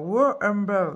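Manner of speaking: real French-accented attempt at English; English colour name in a French accent; super accent English. Real, not acted. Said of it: "mon super accent English". (accent anglais approximatif)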